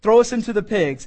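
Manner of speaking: high, loud desperate plea; begging demons. Acted. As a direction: beg hard to be thrown in. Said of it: "So they beg".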